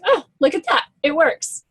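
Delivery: acting out a happy discovery; pleasant surprise. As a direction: lift the pitch in mild wonder. Acts out her reaction to results.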